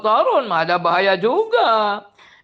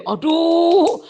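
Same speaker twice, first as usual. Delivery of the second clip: much higher, pained exclamations; exasperated disbelief; 7 semitones higher than usual. Real, not acted. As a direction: sigh in dismay.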